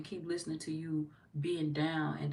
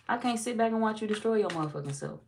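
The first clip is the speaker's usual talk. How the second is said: emphatic louder repeat; 5 semitones higher, 5 dB louder than usual. Acted.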